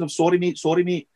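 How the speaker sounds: a lightly put-on Dundonian accent, barely shifted; a half-hearted stab at Dundonian lads apologising; rubbish Dundonian accent. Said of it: "That was my best Dundonian accent".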